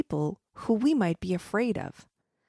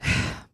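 miserable sigh. Acted. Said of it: "The child answered miserably".

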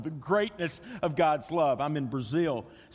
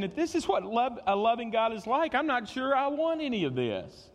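grumbling doubt; 7 semitones higher than usual. Retold or imitated. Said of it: "the people are saying".

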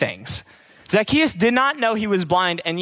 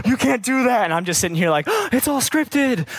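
mock outrage; 3 semitones higher than usual. Preacher imitating shocked Bachelor viewers, mock outrage. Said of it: "everyone's like".

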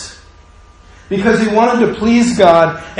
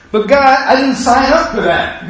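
a higher, indignant little plea; protest, pitched up high; higher mock protest; 7 semitones higher than usual. Voices protest to God.

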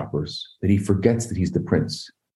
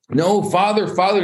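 high-pitched calling out to a far-off father; mock scream; 10 semitones higher than usual. Prince calling his father over the crowd, mock screaming. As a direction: cry out "father" high, without full volume. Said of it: "he's screaming as loud as he can".

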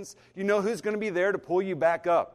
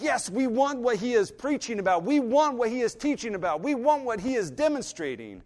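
excited crowd; 5 semitones higher, 3 dB louder than usual. Retold or imitated. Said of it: "They're excited".

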